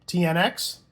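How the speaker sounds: usual speaking voice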